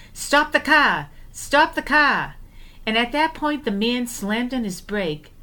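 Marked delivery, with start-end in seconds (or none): 0.1-1.1 high, loud cry to halt the car; retold scream. Sister retelling how she screamed at the driver to stop, high loud yell. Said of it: "slammed my entire body over the hood and screamed". 1.3-2.4 high, loud, slow repeated cry; retold scream, slower. Sister repeating her scream at the driver, high and slow. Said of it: "slammed my entire body over the hood and screamed".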